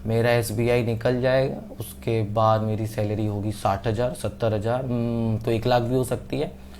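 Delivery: soft, lightly acted planning aloud; musing daydream. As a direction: think aloud as a dreamy student, softly. Acting out a student's daydream plans.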